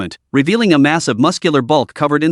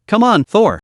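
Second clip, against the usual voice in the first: flirtatious; 3 semitones higher than usual. Acted. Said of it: "deliberately struck a flirtatious pose".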